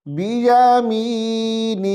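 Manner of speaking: بیامینہ slow, kasra dropped at the end; pause form. Shown as a demonstration. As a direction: stop on بیامینہ with no final i. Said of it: "کیسے پڑھیں گے،".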